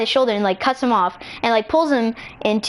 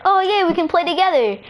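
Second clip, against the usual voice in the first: higher, pleased little cheer; happy excitement; 6 semitones higher, faster than usual. Acted. Girl glad they can play together, happy excitement. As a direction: perk up high with glee.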